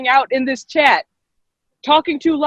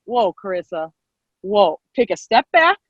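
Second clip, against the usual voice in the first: calming someone down; 5 semitones lower than usual. Retold or imitated. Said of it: "and they're like".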